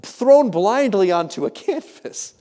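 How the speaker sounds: high, loud imitated guard, slowing at the end; confiding French guard. French guard letting tourist in on a secret, confiding. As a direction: reveal it grandly, slowing on the last words. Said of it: "he leans in and he goes".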